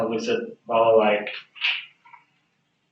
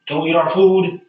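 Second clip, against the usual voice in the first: townsman's warning; 4 semitones higher, 5 dB louder than usual. Acted. Townsman warns off the newcomers.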